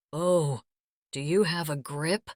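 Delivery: strained through clenched teeth. Acted. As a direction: squeeze it out past clenched teeth. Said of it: "he said through clenched teeth".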